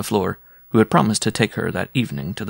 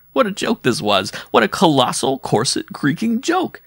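mirth rising to a high finish; gleeful exclamation; 6 semitones higher than usual. A narrator's reading. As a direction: relish the colossal joke, climbing in pitch. Giantess's gleeful thought at the absurdity.

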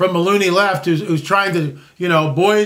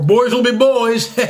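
slow drawn-out saying; 4 semitones higher, 3 dB louder, slower than usual. Retold or imitated.

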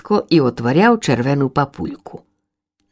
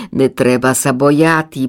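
gentle mother; 4 semitones lower than usual. Acted. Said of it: "повіла ласкаво мати Ластівка".

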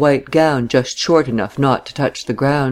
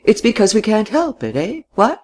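put-on higher, earnest old man's answer; in all good faith; 8 semitones higher than usual. A narrator's reading. Old father earnestly answering his daughter, in good faith. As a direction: offer it earnestly, ending on a questioning lift. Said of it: "he said in all good faith".

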